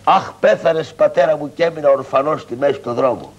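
hammed-up wailing for a dead father; theatrical fake mourning; mock lament. Shown as a demonstration. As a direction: show the boy how to fake a lament. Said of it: "Θα κλαις".

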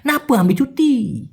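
"নাপু" without its first syllable; shortened slang form. Shown as a demonstration. Teacher showing the shortened question, slurred and drawn out. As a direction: slur "নাপু আমি" and stretch "ছুটি". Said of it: "শুধুমাত্র নাপা বলতে পারে".

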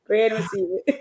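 said with a chuckle, normal level; gentle laughing nudge to the guest; light laugh. Real, not acted. First take, lighter.

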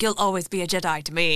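put-on quick New Zealand accent clone; Kiwi accent. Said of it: "I do a killer Kiwi accent".

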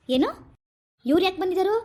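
indignant questioning. Acted. Man confronting his wife over unwelcome visitors, angry. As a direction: demand an answer, with some edge. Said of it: "ಮೆತ್ತಗ್ ಮಾತಾಡಿ".

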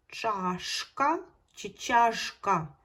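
"Чашка чи чашка" said very slowly, comparing a final ш with a final ж; teacher weighing the two spellings; slow contrast. Shown as a demonstration. Teacher to pupils, slowly weighing the two spellings. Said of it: "А яке перевірне слово?".

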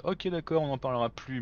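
sugary, placating tone; honeyed voice. Pretend. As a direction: sweet-talk to smooth it over. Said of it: "une voix mielleuse en mode".

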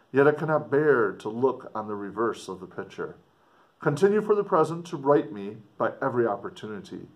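put-on earnest, dramatic reading of an old letter; story narration. A narrator's reading. Explorer writing home to his sister, dramatic story reading. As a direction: read it like a gothic novel, with feeling. Reads a gothic letter aloud.

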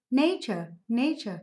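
"nature" with NA stressed; first-syllable stress. Shown as a demonstration. Teacher confirming the answer, "nature" stressed on its first syllable. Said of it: "âm tiết số một".

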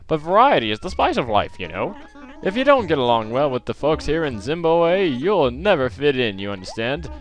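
loud, swooping mock-British accent; terrible British accent. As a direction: put on a bad, hammy British accent. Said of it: "he got a British accent all of a sudden".

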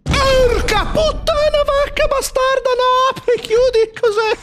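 high-pitched panicked scream; terrified shriek. Real, not acted. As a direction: shriek in real fright. Jump scare, shrieking.

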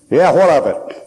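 gruff retort. Retold or imitated. Gruff man rebuffs the preacher.

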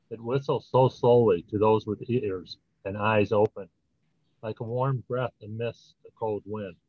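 measured poem recital, paused between lines; poem reading. Acted. Poet reads own poem to the audience, measured recital. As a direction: read verse line by line, lightly measured.

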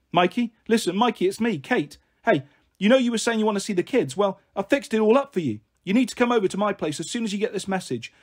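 lightly voiced chatty mum; mum leaving voicemail. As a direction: chat cajolingly into someone's voicemail.

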